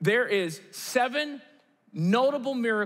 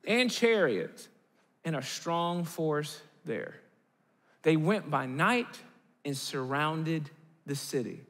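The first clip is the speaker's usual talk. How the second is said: scripture reading; 6 semitones lower than usual. Acted. Reads scripture aloud.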